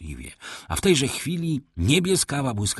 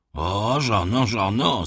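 mild exclamation; understated cry of reproach; called out; 3 dB louder, slower than usual. A narrator's reading. Husband appealing to his wife, calling out mildly. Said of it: "zawołał".

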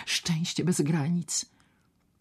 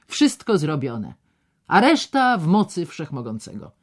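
solemnly; 6 dB louder than usual. Acted. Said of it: "dodał uroczyście".

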